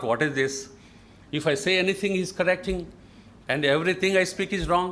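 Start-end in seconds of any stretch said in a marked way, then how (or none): none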